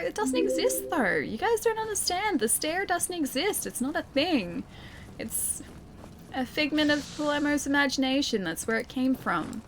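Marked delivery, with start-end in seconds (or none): 0.0-8.4 high-pitched exasperated insistence; protesting. Real, not acted. Streamer insisting to chat the stair doesn't exist, high-pitched protest. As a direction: protest in a much higher voice.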